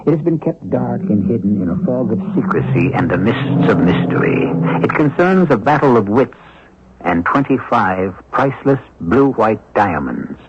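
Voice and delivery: mystery host narration. Acted. Host welcoming listeners to a mystery, hushed and ominous. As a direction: draw the listener into a secret tale.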